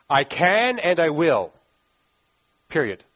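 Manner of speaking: slow, firm promise; absolute certainty. Acted. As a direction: state it deliberately, leaving no doubt. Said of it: "there's no doubt. It's as secure".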